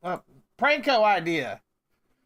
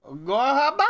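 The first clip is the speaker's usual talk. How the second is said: mock wail; 4 semitones higher, 4 dB louder than usual. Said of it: "They call it Gorhaba because it's ghoulish".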